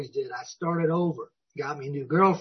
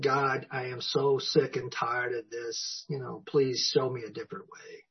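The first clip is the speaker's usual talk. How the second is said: hushed weary prayer; 3 semitones lower, 6 dB quieter than usual. Retold or imitated. Broken man praying for help.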